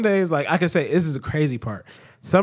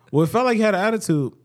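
higher, quick accusing question; mock questioning; 5 semitones higher, faster than usual. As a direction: play the suspicious partner pressing. Acts out partner questioning him.

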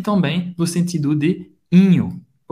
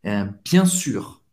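slow demo; 6 semitones lower, slower than usual. Shown as a demonstration. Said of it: "É óbvio".

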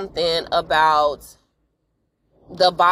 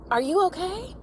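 much higher, sugary mock-sweet question; fake concern; 12 semitones higher, 5 dB quieter than usual. Nosy neighbors feigning concern to get the inside scoop.

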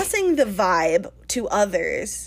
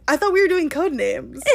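higher, giggling through it; laughing excuse; 6 semitones higher than usual. Retold or imitated. Telling Wolfgang about code names, through laughter. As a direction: say it while laughing.

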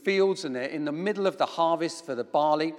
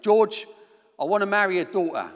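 louder, hammed-up Bromley accent; best Bromley accent; 3 semitones higher, 5 dB louder than usual. Nervous suitor asks George for his daughter's hand, best Bromley accent. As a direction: put on a Bromley accent for a quick proposal. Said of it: "in my best Bromley accent".

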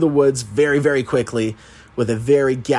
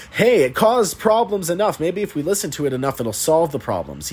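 sarcastic mock reasoning; 6 semitones higher than usual. Mocking Ash's logic.

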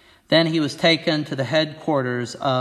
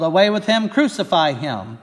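higher, louder yell on "Away with him"; 4 semitones higher, 4 dB louder than usual. Acted. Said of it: "they yelled".

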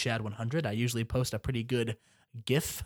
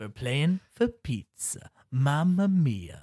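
mock Italian host; much slower than usual. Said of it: "why are you talking like this".

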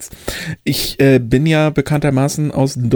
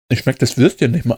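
mouth full. Real, not acted. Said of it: "mit vollem Mund".

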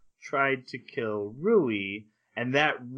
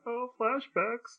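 slow, drawn-out mock groan at "Oh, flashbacks."; a sarcastic sigh of "flashbacks"; 12 semitones higher, 5 dB quieter, much slower than usual. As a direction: drag "Oh, flashbacks." out with weary sarcasm. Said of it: "I'm like".

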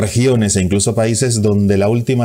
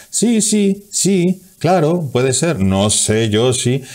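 higher, wavering unsure yes; hesitant reply; 6 semitones higher, much slower than usual. Pretend. Answering a friend with a hesitant yes. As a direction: act out an unconvinced agreement.

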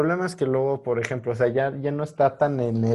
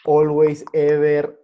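English fillers dropped into Spanish chat; spanglish; 3 semitones higher, 6 dB louder, slower than usual. Shown as a demonstration. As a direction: toss in casual English words, a bit louder. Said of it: "Hablar Spanglish".

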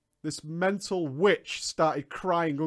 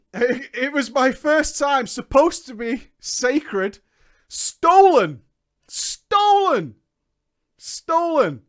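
mock tragic lament; 6 semitones higher, 7 dB louder, slower than usual. Mock tragic lament over story.

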